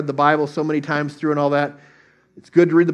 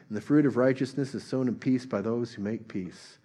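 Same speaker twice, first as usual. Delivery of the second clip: softly, peaceably read scripture; gentle voice of God; 3 dB quieter than usual. Acted. Preacher voicing how Jesus does sound, gently, growing softer. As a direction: let it soften into a gentle, quiet close. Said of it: "this is the way I do sound".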